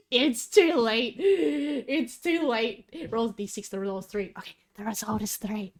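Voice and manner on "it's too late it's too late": slow, drawn-out mock wail; mock despair. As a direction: ham up the tragedy, very slowly. Mock despair over dropped dice.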